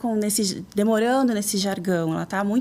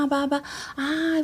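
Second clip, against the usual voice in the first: put-on higher, slow baby babbling sounds; imitating baby babble; 5 semitones higher, slower than usual. Speaker imitating an infant's babble, higher and slow.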